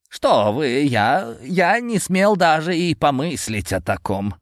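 high, panicked servile voice; frightened. A narrator's reading. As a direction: stammer in fear of the master. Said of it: "Старика перекосило от страха".

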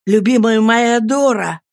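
happy lover calling out to his Dora; joyful exclamation. Acted. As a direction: declare it with delight. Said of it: "воскликнул я".

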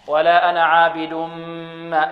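ولا أنا عابد ما, tanween melted into a hummed m; idgham with ghunnah. Shown as a demonstration. Tajweed teacher shows pupils merging, sustained nasal hum. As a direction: hold the nasal m before ما. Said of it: "إدغام".

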